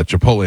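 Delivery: "Chipotle" as chi-POHL-ay; own pronunciation. Retold or imitated. Host recalling a commercial read, own pronunciation. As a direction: say "Chipotle" with a softened, dropped T. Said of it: "and I would say".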